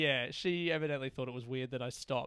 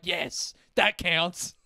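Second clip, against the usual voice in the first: triumphant yes; 5 dB louder, much slower than usual. Retold or imitated. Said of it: "and I was like".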